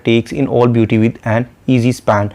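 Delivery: slow, measured verse reading; slow poetic recital; poem recitation. Shown as a demonstration. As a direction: read the line of poetry slowly. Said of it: "वो line number four में बयान करता है".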